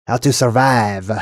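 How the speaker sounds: mock French accent, unhurried. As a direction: read it like a hammed-up Frenchman. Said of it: "Now I get to do my French accent".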